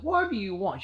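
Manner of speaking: high, irritated question; upset mom. Retold or imitated. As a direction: demand it, annoyed at the interruption. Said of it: "She's, she's upset".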